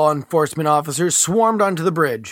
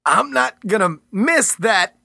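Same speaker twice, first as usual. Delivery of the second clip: mid-transformation; 7 semitones higher, slower than usual. Acted. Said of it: "voice turned into a snarl".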